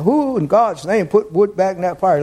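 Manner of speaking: mildly acted overheated exasperation, jumping high at the end; lightly mimicked hot-and-bothered complaint; Brother Charlie. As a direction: imitate a sweltering man protesting, pitch rising on the last words. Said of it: "he's just hot. He said".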